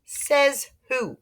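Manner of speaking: high, snippy retort; sassy girl. Acted. Sheila defying Peter over the rocks, high sassy retort. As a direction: toss it back in a high cheeky voice. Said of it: "she asked".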